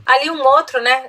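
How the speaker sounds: ordinary talk, nothing marked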